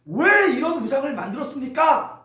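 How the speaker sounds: mildly indignant retold question; a touch of mock confrontation; retold defiant challenge. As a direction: imitate a brother talking back, lightly. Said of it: "형한테 막 대들어요".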